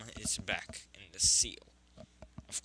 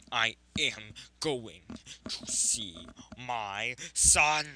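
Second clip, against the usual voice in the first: a caged beast vowing to break out; roaring rage; 4 dB louder than usual. Acted. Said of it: "he is screaming and roaring and punching the seal".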